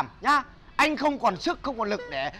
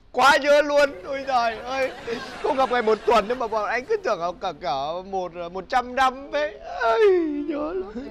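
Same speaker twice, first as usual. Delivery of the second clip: mock crying; 2 semitones higher than usual. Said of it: "hôm nay lại khóc thút thít thế".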